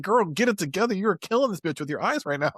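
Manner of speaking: put-on high sassy girl scolding; sassy drag queen. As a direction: sass her like a diva. Scolding friend across the table.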